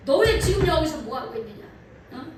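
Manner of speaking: a preacher voicing Mary and Joseph scolding young Jesus; parents scolding. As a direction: play the worried parent telling him off. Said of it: "뭐 야단을 칩니다".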